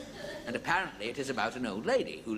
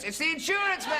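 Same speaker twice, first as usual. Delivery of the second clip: very high squawky parrot shout; 4 dB louder than usual. Acted.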